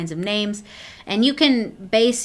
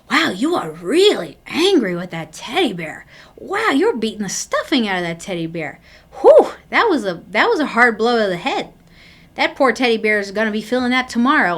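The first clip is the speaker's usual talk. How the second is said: put-on lively, louder commentary on the child's play; mildly excited demo play-by-play; animated narrating; 5 dB louder than usual. Shown as a demonstration. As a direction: narrate the pummelling like an impressed onlooker, with a louder burst at Whew. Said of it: "just to tell them what you see".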